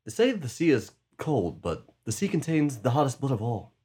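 actor impression. Friend performs a movie line for the guessing game, ominously. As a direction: intone it like an ominous sea tale. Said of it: "my characterization of the actor".

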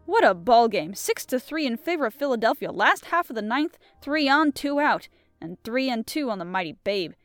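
lively storyteller, building excitement; story narration. A narrator's reading. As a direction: narrate the ballgame like a thriller. Narrates the ballgame scene.

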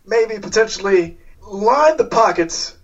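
oily corporate charm; smooth salesman voice. Acted. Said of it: "He says".

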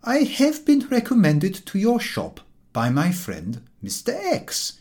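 prim and proper recommendation; courtly introduction. A narrator's reading. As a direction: recite it like a stiff gentleman. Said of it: "George said".

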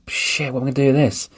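mock dismay at a broken moped, high and hurried; exasperated. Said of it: "I'm like".

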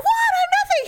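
mock husband. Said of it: "And he's like".

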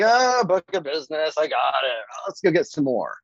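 offhand mock complacency, sighing "ah" then moving on; lightly acted ho-hum dismissal; taking it for granted. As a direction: toss it off as nothing special. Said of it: "take that for granted".

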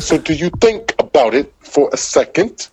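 halting, broken-up mimicry of a rapper; robot flow imitation. Podcast guest mimicking a rapper's odd flow, halting and robotic. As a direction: chop it into robotic bits with pauses. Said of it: "lot of pauses ... Like the robot".

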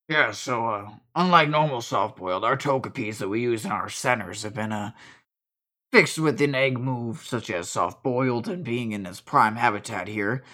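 low, measured nurse-like explainer; low-voiced Zane, explaining. Game master voices Zane.

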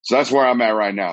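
stuffy nasal voice from allergies; talking through a blocked nose. Real, not acted. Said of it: "If I sound super nasally".

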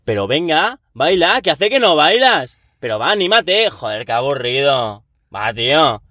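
lightly voiced pushy stranger; pushy partygoer. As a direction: needle your friend to dance. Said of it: "la típica persona a decirte".

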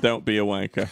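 playful British scold; mock British accent. Echoing mock British slang.

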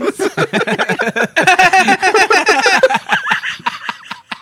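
a long, high burst of laughter; high laughing fit. Real, not acted. Friends crack up at the mom joke, laughing hard. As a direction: cackle high and loud.

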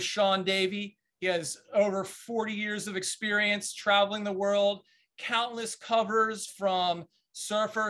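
upbeat host voice opening the show; podcast host intro. Acted. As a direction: announce the episode like a show host. Host opens the podcast episode.

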